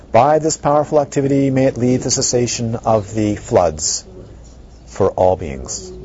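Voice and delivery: measured dedication read; formal blessing. Acted. Teacher dedicating merit to all beings, formal. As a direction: bless them, steady.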